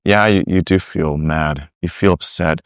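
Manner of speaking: patient reassuring tone; calm validating. Shown as a demonstration. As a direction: soothe an upset child. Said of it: "Rather than just saying".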